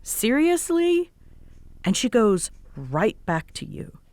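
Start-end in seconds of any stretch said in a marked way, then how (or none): 0.0-1.1 mock offended. Cat leaves her for roommate.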